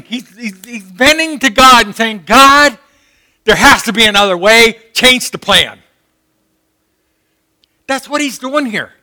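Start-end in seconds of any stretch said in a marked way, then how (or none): 2.3-5.8 loud, urgent plea; begging for another way; pleading. Retold or imitated. Jesus bending to God, pleading loudly. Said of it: "he's pleading".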